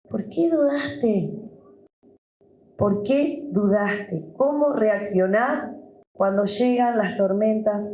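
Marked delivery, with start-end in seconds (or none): 0.1-1.4 Jesus asking. Acted. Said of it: "y te dice". 2.8-4.3 Jesus repeating. Acted. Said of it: "y te dice".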